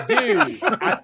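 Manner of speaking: high squeaky laugh; laughing through pain. Real, not acted. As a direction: laugh without moving the lips. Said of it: "can you laugh without smiling".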